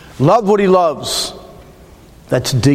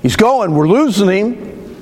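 quoting a frantic medic, higher and slow on losing; 6 semitones higher, slower than usual. Retold or imitated. Retelling the ER crew's panic over him, frantic. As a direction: let the alarm rise as you quote them. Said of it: "you could just sense they were frantic".

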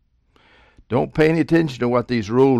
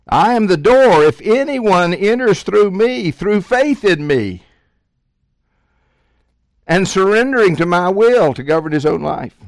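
forceful preaching; 7 semitones higher, 4 dB louder than usual. Acted. Preacher voicing Jesus, climax.

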